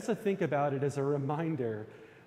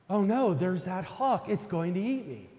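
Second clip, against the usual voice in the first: higher, mildly panicked rabbit; anxious mock yell; 4 semitones higher than usual. Storyteller voices the rabbit's growing panic, anxious mock yell. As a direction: yell it lightly, as a more worried rabbit. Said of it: "getting more overwhelmed with anxiety, yells out".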